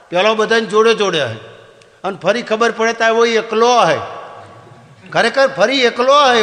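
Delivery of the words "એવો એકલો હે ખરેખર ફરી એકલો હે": mimicking deaf man. Comedian mimics deaf man's "he.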